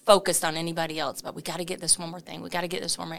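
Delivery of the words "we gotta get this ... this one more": fast, hurried rattle through the list; rattled-off list. Retold or imitated. Owner rushing her team through tasks. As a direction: reel off tasks, barely breathing. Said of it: "and I'm just listing it out".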